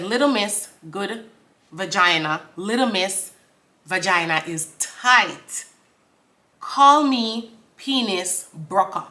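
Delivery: slow verse reading with pauses; deliberate lyric recital. Acted. Explaining a rap verse to viewers, deliberate recital. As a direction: spell out each bar slowly.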